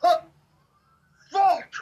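high-pitched cursing in broken bursts; mock scream, halting between the swear words; retold yelling, screaming. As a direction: act out yelling each curse separately. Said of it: "yelling, screaming".

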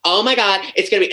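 rattling on in a brash Bronx voice; Margot. Retold or imitated. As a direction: gush like a Bronx party girl hyping tonight. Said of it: "be her and then get on".

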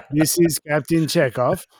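hammed-up wrong attempt at a Russian accent; mock Russian captain accent; botched Russian accent. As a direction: announce yourself in a badly faked Russian accent. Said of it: "Oh, wrong accent".

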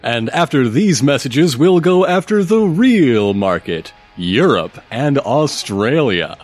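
announcer voice. Acted. Ad-break announcer.

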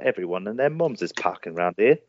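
low West Country twang; country farmer accent. Shown as a demonstration. Actor's warm-up line from the movie, farmer accent. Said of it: "saying that line helps me get into that accent".

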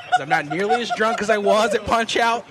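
high, loud laughing confession; laughing hard. Real, not acted. Owning up to being drunk at Punch Out, laughing loudly. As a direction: laugh through the admission.

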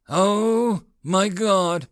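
high, loud "oh my God" in shock; shocked gasp. Acted. Petty officer overhearing the captain, stunned outburst. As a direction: blurt it out, stunned by what he overheard.

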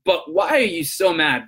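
acting out standing your ground; firm but understanding, drawing out the final question; calm authority. Agent to a yelling customer, calm authority. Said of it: "show some authority and go".

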